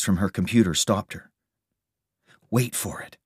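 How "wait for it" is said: softly held-back excitement; excited. A narrator's reading. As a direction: say it with hushed anticipation. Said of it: "she said excitedly".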